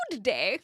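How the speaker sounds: "Good day" as two full words after a laugh; amused, over-careful "Good day"; fully pronounced "good day". Shown as a demonstration. Streamer mocking her own greeting, "Good day" said in full. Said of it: "I say good day".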